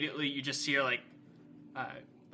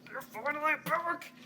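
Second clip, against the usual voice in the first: higher, eager welcome; joyful father; 12 semitones higher than usual. Acted. A father tackles his returned daughter in a bear hug, overjoyed. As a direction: boom it with joy as you hug. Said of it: "just like".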